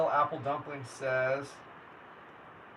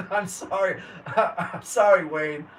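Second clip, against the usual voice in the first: sorry said through real laughter, the second one slower; giggling, can't keep a straight face; laughing apology; 5 dB louder, slower than usual. Real, not acted. Streamer laughing at his own failed accent, apologizing through laughter.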